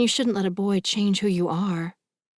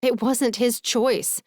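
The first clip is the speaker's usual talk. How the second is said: slow, higher, emphatic protest; volume rising; 6 semitones higher, 3 dB louder, slower than usual. A narrator's reading. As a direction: push back, stressing each word. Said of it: "my volume rising".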